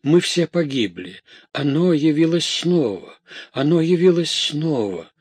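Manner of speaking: high-pitched panicked cries; acted terror of a maidservant; extreme fright. A narrator's reading. Maid bursting in with dreadful news, extreme fright. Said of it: "выражая всем своим видом крайний испуг".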